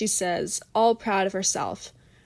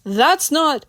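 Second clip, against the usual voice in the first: sputtering; 6 semitones higher, 4 dB louder, slower than usual. A narrator's reading. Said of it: "Bill sputters".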